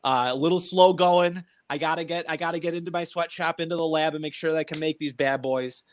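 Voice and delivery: muffled behind a mask; talking through a cloth mask; through a face mask. Real, not acted. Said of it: "I'm wearing a mask right now".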